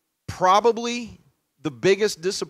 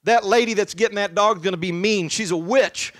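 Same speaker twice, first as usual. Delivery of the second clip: put-on upset child; 4 semitones higher, 5 dB louder than usual. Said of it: "And she said".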